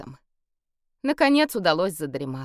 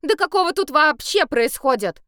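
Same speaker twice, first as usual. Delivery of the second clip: angry; 9 semitones higher, 6 dB louder than usual. A narrator's reading. Woken, furious.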